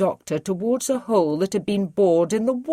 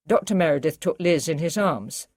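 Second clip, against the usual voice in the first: ordinary delivery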